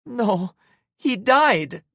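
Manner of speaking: high, loud snap; snapping. A narrator's reading. Em snapping at the narrator's comfort, high and loud. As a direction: snap back at him. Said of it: "she snapped".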